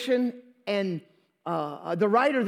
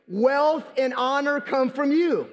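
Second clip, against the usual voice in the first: raised-pitch recitation for all to join; out loud together; 4 semitones higher than usual. Real, not acted. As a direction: lead the congregation in reciting it aloud. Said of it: "say that out loud together".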